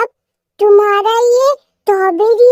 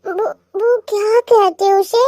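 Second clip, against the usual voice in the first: put-on childish sulk; 3 semitones higher than usual. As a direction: threaten divorce like a sulking little girl. Wife sulks, threatens divorce.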